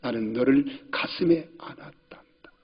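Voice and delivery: softly whispered embrace; tender whisper. Retold or imitated. Father whispers tenderly of holding his little son. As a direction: hush it like holding a child.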